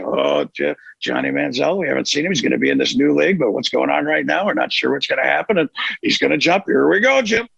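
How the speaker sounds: playful broadcast over a cliff dive; announcer hype building to the jump; Romo and Nance call. Retold or imitated. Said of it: "I started doing it to viral videos".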